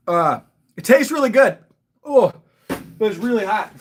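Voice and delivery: talking through a burning mouth; burned tongue. Real, not acted. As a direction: speak with your tongue on fire. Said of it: "My tongue is on fire".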